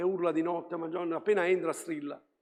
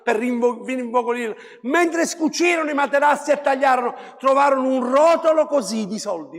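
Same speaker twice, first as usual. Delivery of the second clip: higher, louder, fervent preacher voice; impassioned sermon delivery, higher and louder; full-force preaching; 7 semitones higher, 7 dB louder than usual. Acted. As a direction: preach it out to the congregation.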